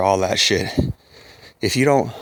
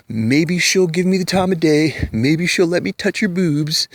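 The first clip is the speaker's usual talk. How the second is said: higher, eager mock simp voice; mocking beta boy; 4 semitones higher than usual. Mocking beta boys chasing a pretty girl, eager and higher. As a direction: lightly play a lovestruck beta boy. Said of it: "these little beta boys".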